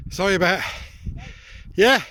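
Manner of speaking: out of breath from the climb, heavy breathing; puffing and panting between words. Real, not acted. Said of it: "Sorry about the heavy breathing".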